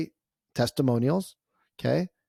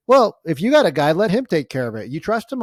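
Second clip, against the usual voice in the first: quoting the husband; 4 semitones higher, 5 dB louder than usual. Retold or imitated. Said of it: "He's like".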